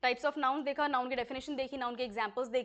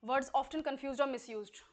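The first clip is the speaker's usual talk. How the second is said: very slow, each word spaced; teacher dictating a topic title; slow dictation; much slower than usual. Shown as a demonstration. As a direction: read the heading slowly. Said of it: "slow dictation of topic title".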